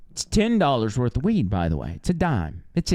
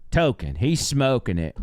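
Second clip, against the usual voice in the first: usual speaking voice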